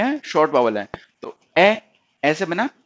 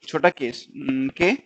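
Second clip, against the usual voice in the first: छोटा के, के drawn out very slowly; slow spelling; 4 semitones lower, 4 dB quieter, much slower than usual. Shown as a demonstration. Teacher slowly spelling book for students. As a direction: spell the sounds slowly and softly. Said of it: "इसको हम हल्के से".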